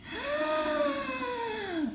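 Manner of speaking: high, drawn-out, soft gasp; long shocked gasp. Real, not acted. Streamer still amazed by the chart, long high gasp. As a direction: suck in air in amazement.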